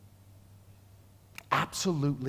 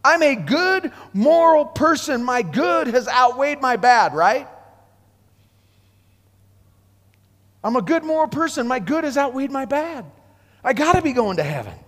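higher, smug voice of a self-assured good man; self-righteous man; 5 semitones higher than usual. Acted. Preacher voices the rich man's self-assurance, smug and raised. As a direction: sound sure of earning heaven. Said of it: "Basically, he's saying".

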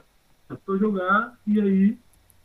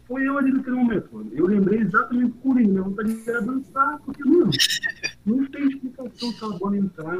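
excited; 9 semitones higher than usual. Real, not acted. Worked up about the goal.

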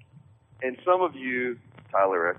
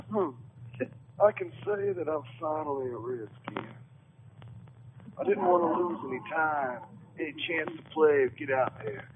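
lightly voiced player quote, higher at the start; Fred Davis; 4 semitones higher, 5 dB quieter than usual. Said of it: "Let me put on my Fred Davis, uh, uh, voice here".

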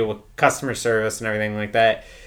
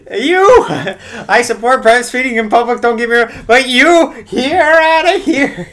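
umpire ejection call; 13 semitones higher, 9 dB louder than usual. Pretend. Worker ejecting a breastfeeding customer, hammed-up umpire yell. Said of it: "mock umpire ejecting a customer".

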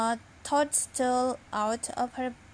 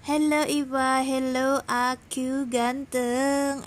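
calling out; 4 dB louder than usual. Real, not acted. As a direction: call hello and hold the vowels long. Calls out greeting during recording.

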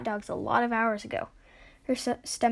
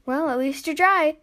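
louder, higher, cheerful lift; 5 semitones higher, 6 dB louder than usual. A narrator's reading. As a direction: say it brightly, looking on the upside. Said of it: "Exior said cheerfully".

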